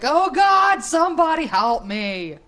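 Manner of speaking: high, loud mock cry for help; hammed-up panic, clinging for dear life; panicked cat voice. Streamer voicing a cat clinging to her, mock panic. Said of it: "like the world's tilting around".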